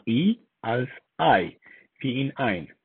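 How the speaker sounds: "ei" and "ein" with an eye glide. Shown as a demonstration. Teacher showing how German EI is read, "ein" with an eye sound. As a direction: say "ein" like English "eye-n", slowly.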